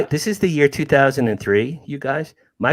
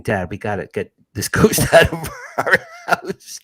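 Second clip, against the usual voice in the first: higher-pitched mock plea from frightened children; imitating upset kids; 5 semitones higher than usual. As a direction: imitate the kids pleading, a laugh breaking through. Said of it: "My kids are crying".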